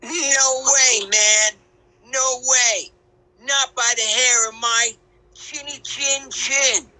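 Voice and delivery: defiant refusal. Acted. Pig refuses the wolf.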